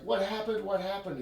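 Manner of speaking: urgent, panicky retelling, voice jumping up; terrified rage. Retold or imitated. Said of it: "has the terrified rage".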